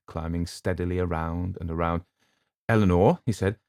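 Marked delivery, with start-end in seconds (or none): 2.7-3.2 loud call of her name. A narrator's reading. Luke calling up.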